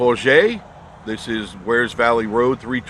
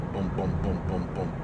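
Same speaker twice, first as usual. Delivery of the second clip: on a bumpy road; 3 semitones lower, 9 dB quieter than usual. Real, not acted. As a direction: voice jolted over bumps. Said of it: "there's always bumps right here".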